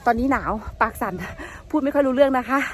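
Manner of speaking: shivering, lips trembling; words shaky with cold. Real, not acted.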